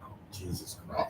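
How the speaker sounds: hushed, barely voiced exclamation; exasperated mutter. Real, not acted. Co-host reacting to the claim about DEI, exasperated.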